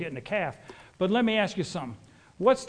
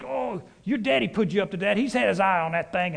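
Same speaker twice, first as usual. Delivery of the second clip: huffing indignant; 3 semitones higher, 4 dB louder than usual. Retold or imitated. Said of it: "he got to huffing".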